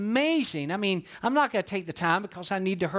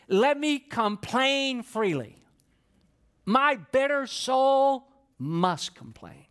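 Job's lament; 4 semitones higher, slower than usual. Retold or imitated. Preacher voicing Job's lament.

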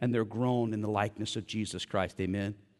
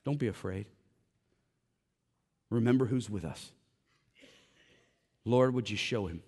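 simple and calm; 3 semitones lower than usual. Retold or imitated. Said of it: "Elisha said pretty simply".

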